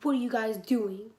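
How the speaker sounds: loud demand; retold yell. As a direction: yell the question at them. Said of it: "he starts yelling at us".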